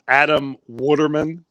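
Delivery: Adam Waterman in a Philadelphia accent, Waterman as wooder-man; Philly accent. Real, not acted. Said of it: "my Philly accent".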